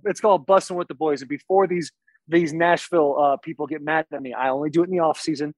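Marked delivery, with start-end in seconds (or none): 0.0-1.2 unhurried, clearly announced podcast name; slower. Real, not acted. Guest names his podcast on host's request, unhurried. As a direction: give the name room this time. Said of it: "Say it slowly".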